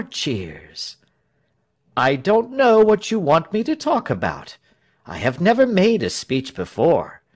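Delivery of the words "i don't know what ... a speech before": high-pitched public address; speechmaking. A narrator's reading. Tell making his first speech, oratorical.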